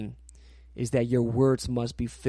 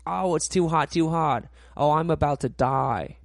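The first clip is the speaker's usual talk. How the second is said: mock complaining; 3 semitones higher, 5 dB louder than usual. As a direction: grumble about the heat like a sulky churchgoer. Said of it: "People says".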